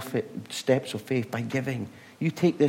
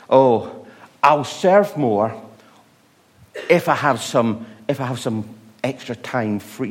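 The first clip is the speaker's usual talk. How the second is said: lightly voiced, louder lazy excuse; mock excuse; 5 dB louder than usual. Preacher mocking believers who put God off, lightly voiced. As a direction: parody a half-hearted churchgoer.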